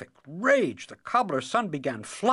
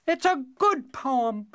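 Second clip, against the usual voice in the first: loyal; 10 semitones higher than usual. Acted. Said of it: "said the cobbler's youngest son loyally".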